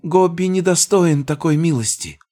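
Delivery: high squeaky goblin voice; grovelling goblin, pitched high. Acted. Goblin servant voice.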